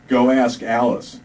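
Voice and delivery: slow, loud, spaced-out; stoned private answering his lieutenant, spaced out; dazed stoner. Acted. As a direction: drift through it stoned. Stoned soldier's reply.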